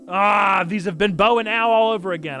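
loud, high earnest anime hero; anime protagonist voice. Acted. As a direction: shout it like an anime lead. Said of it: "She's got anime protagonist voice officially".

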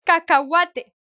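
Cacahuate said ka-ka-WA-te, the h dropped; Cacahuate, h completely silent. Shown as a demonstration. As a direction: say Cacahuate with no h sound at all.

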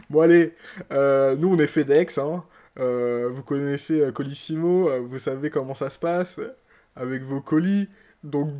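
loud, brash courier announcing the delivery; a hammed-up loud delivery guy; mock delivery man. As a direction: bluster like a careless parcel service. Plays a FedEx delivery man.

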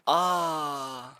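drawn-out groan. Real, not acted. Oyunda sinirlenip bağırıyor.

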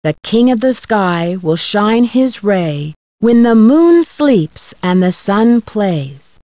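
slow, measured riddle verse; poem recitation. Acted. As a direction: recite it solemnly, pausing after each line.

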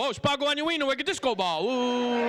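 high-pitched mock marvelling; mock wonder. Comic teasing Pickle about sparkle, mock wonder. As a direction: act dazzled, pitched well up.

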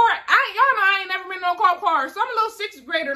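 ordinary delivery

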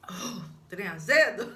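puckered, squealing laugh at the sour taste; sour taste reaction. Real, not acted. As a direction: react to a mouthful of sour lemon. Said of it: "esse limão tá azedo".

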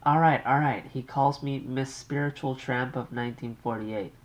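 light high polite thank-you; brisk thanks to the operator; Muriel's polite thanks. Acted. Young wife thanks the operator, lightly polite.

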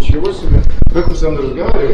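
loud indignant shout. Real, not acted. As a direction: yell back in outrage. Heated quarrel with manager.

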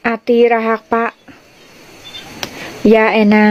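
says อาตีระหักปะ ยาแอนนา clearly in Lua; a teacher teaches viewers the Lua "I love you"; Lua phrase. Shown as a demonstration. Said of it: "แปลว่าฉันรักเธอ".

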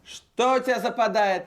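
slow, puzzled disbelief; baffled. Acted. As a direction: stretch it out in confusion. Producer baffled by his words.

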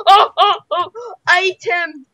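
loud, high excited shouting. Real, not acted. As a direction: yell it mid-fight. Fighting Q's in a duel.

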